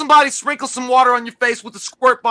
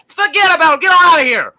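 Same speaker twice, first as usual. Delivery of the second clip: higher, louder, shoving them off; forceful dismissal; 5 semitones higher, 4 dB louder than usual. Real, not acted. Co-host to chat trolls, louder dismissal. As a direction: Forget punched high and loud.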